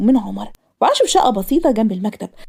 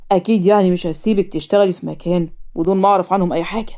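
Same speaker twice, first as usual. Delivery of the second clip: lightly voiced father, pitched down; a hint of a reassuring father's low voice; father character; 4 semitones lower than usual. Father tells his daughter he checked on her office, lightly voiced and low.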